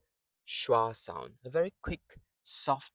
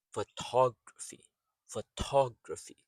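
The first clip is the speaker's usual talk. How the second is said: "Photography" as fuh-TOG-ruh-fee; stressed syllable. Shown as a demonstration. Teacher shows rhythm in the word, "Photography" stressed on second syllable. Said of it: "there's a stress sound or syllable".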